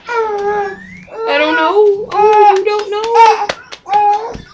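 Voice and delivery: high, long-drawn cooing. Real, not acted. Baby talk to fussing baby.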